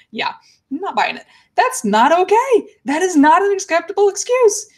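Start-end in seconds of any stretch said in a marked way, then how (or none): 1.6-4.7 higher, slowed, pressing each word; real indignation, raised pitch; indignant. Real, not acted. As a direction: firmly refuse the excuse. Reacts to chat joke, indignant.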